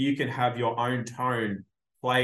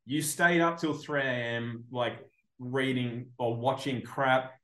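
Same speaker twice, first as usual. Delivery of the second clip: mocking scolding impression; 3 semitones higher than usual. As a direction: laugh through a shrill-pitched telling-off. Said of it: "impression of it".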